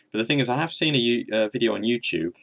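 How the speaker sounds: choppy, fan-warbled voice. Real, not acted. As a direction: voice gone weird, like into a fan. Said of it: "Sounds like I'm talking into a fan".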